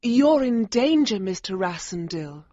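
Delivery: very high, hushed urgent woman; quick nervous warning. A narrator's reading. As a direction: warn him fast and nervous. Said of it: "she told me quickly".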